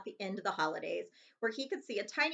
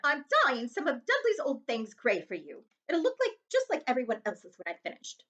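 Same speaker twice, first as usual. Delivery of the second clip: tart, curt aunt voice; lightly voiced irritated aunt; a hint of the cross aunt; 3 semitones higher, 4 dB louder than usual. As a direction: brush him off impatiently. Aunt Petunia scolding Harry.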